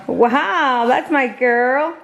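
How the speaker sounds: high, slow sing-song praise for the dog; drawn-out loving praise; doting praise. Real, not acted.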